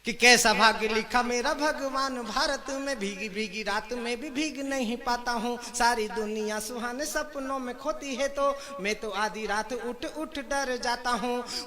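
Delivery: measured, drawn-out verse delivery; poem recitation. Acted. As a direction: recite to the crowd in rhythmic phrases. Recites his comic verse.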